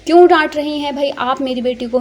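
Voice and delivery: fake-stern rebuke; father scolds the mother in pretend anger; mock anger. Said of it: "मसनूई गुस्से से डांटते हुए".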